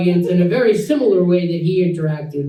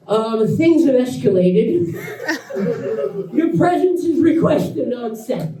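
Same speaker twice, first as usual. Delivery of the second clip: laughing; 5 semitones higher than usual. Retold or imitated. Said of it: "he goes".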